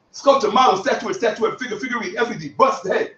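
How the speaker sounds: speed-read the list aloud; reading quickly. Shown as a demonstration. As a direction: rattle the synonym list off at speed. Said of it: "You know why I read that quickly?".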